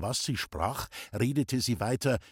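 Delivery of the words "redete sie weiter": ordinary delivery, nothing marked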